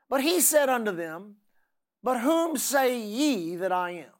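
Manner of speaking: slow, measured pulpit reading; scripture reading. Acted. Preacher reads Matthew to the congregation, slow and declaimed. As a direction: read the verses out slowly, stretching the key words.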